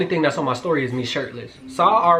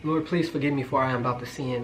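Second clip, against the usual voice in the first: hammed-up plea, trailing off softly; mock prayer; 5 dB quieter than usual. Storyteller calling on the Lord over a man in a towel, mock desperate. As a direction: beg heaven as temptation takes over, playfully. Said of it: "That's how I was".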